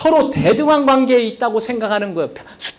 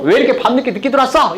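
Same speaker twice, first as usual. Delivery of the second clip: fast, raised scolding question; mock yell; 4 semitones higher, faster than usual. Shown as a demonstration. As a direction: yell at a spouse who came home late. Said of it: "이렇게 고함". (빠르게 소리치며 다그치는 말투)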